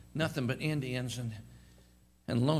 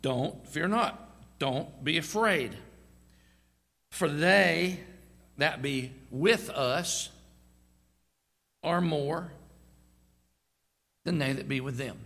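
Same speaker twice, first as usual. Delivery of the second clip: calm assurance; slower than usual. Acted. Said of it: "What he said was".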